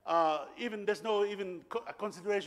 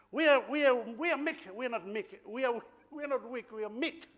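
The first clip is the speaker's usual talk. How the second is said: imitated Angan accent, pitched up; higher-voiced Angan accent impression; powerful Angan accent; 5 semitones higher than usual. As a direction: stumble emphatically in an Angan accent. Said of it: "in a powerful Angan accent".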